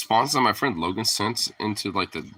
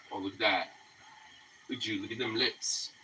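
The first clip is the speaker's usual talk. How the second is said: soft cooing to dog; 12 dB quieter than usual. Real, not acted.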